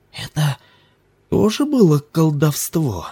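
put-on high, wary questioning boy; suspicious. A narrator's reading. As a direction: ask it with narrowed suspicion. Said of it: "подозрительно спросил Ким".

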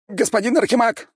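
high, loud terrified squeal; shrieking. A narrator's reading. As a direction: squeal for rescue in panic. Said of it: "взвизгнул Шустов".

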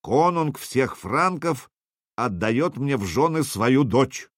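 slow, grand announcement; solemn proclamation. Acted. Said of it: "провозгласил торжественно".

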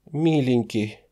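high, loud desperate keening; wailing lament. A narrator's reading. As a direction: beg him not to die, in tears. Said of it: "вполголоса запричитала она". (девушка причитает над раненым, высоко и громко)

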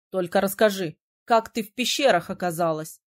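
a hint of a surprised young man; lightly voiced prince. A narrator's reading.

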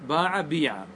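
باع, then بيع with a long "ee"; kasra variant. Shown as a demonstration. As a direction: say باع بيع as "baa-'a, bee-'a". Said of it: "لي ثلاث لغات".

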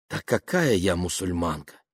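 mild sigh through the words; sighing doubt. Acted. Woman doubts her own faith, mild sigh. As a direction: sigh it out, gently dismissive. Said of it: "вздохнула она".

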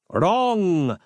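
high sharp retort; villain contradicts Harland; cried. A narrator's reading. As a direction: snap the correction. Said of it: "cried Canon LaRoche".

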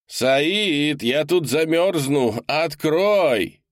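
freezing man outside begging to be let in; desperate shouting man. A narrator's reading. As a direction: pound on the door with your voice. Leonardo keeps pleading outside.

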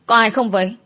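anxious mild call for anyone around. Acted. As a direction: call out to see who's there. Calling for people in empty house.

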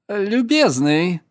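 put-on slow slurred drunken call. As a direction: call out like a tipsy guest. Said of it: "пьяным голосом позвал Яхман".

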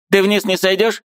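put-on high, fussy old woman; a bustling old aunt, pitched high; old aunt's voice. A narrator's reading. Old aunt shooing the niece, high fussy voice.

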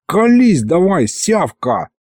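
high, drawn-out thug's order; threatening demand. Acted. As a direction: lean on the suspect. Demon pressures suspect, slaps him.

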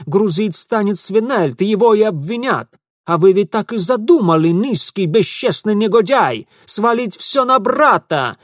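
high, loud insults; furious accusation. Acted. Ingvar furiously insulting Mitya. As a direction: hurl the accusation. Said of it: "Ingvar accusing".

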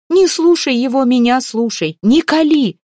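high, loud frantic cries; shouting over him. A narrator's reading. Mamalai shouts down the lean warrior, frantic and loud. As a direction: drown out the other man. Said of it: "перекрикивал его Мамалай".

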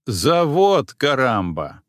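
ЗАВОД stressed slow and loud; slow emphatic correction. Acted. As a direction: correct him, leaning on завод. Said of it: "ответил я".

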